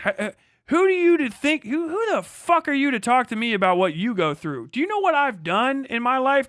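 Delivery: high, loud, hammed-up outraged tirade; mock furious rant. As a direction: scold them like a self-righteous know-it-all, pushing it over the top.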